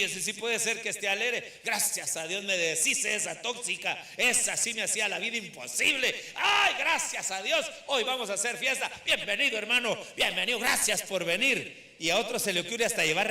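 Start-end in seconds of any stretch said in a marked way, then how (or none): 1.6-11.9 mock relieved widower, laughing; a hammed-up glad widower; playfully voiced happy mourner; gleeful widower. Widower glad his wife died.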